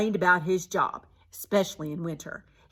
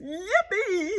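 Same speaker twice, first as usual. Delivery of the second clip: shouted; 12 semitones higher than usual. A narrator's reading. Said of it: "he shouted".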